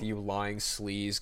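lightly imitated hero, very slow; drawn-out mock accusation; Kevin Conroy's Batman. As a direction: stretch each word like a superhero impression. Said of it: "legendary voice moments of Kevin Conroy's Batman".

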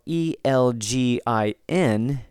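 letter by letter, slowly; spelled out. Shown as a demonstration. Podcaster spelling a Scottish town for listeners, spelled out. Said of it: "that is spelled".

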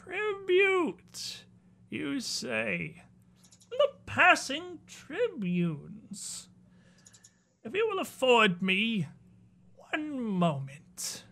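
high, slow, mocking spider lord; spider prince voice. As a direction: toy with the visitors, drawn out.

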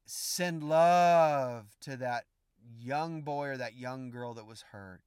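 slow, tender guidance. Real, not acted. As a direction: guide them gently into love. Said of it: "tender instruction".

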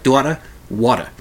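"Daughter, water" with dropped final Rs, imitating her accent; regional accent. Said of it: "catching a little accent with you".

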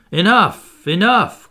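high, loud repeated outcry; crowd crying out. A narrator's reading. Angry audience silences the speaker's opponent, crying out. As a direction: call it out high and forceful. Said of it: "cried some".

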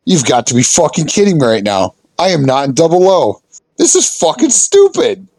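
rising frustration; retold exasperation. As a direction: pitch climbing to a high exasperated whine. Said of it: "I'm like".

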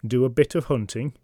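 ordinary delivery, nothing marked

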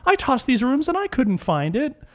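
high, slow, hammed-up accusing woman's voice; mock her shrill accusation, drawn out; accusatory woman. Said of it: "she immediately gets accusatory".

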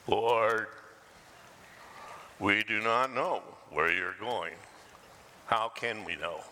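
a hint of a mopey, slow Eeyore; gloomy Eeyore. Pastor voicing doubting Eeyore to the congregation, slow and mopey. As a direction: drag it out like a glum donkey. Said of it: "Eeyore, standing right there, says".

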